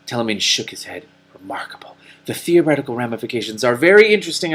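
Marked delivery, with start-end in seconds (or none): 1.3-4.5 dry sarcasm. Acted. Morwen's dry unimpressed reply.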